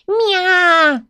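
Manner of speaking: громкое мяуканье повыше; мяукнуть, дразня стражу; высокий кошачий мяв. Acted. (кошка дразнит стражу: высокое громкое «мя»)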